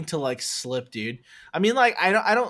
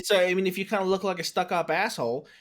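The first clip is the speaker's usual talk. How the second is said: changed voice; 3 semitones higher than usual. Retold or imitated. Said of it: "your voice changed".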